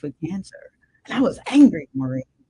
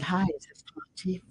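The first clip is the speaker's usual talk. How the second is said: softer, gentle imitation of the nurse; imitating a soft voice; 8 dB quieter than usual. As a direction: lightly mimic the nurse's soft, kind tone. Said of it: "Real soft voice".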